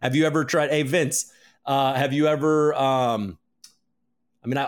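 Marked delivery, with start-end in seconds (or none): none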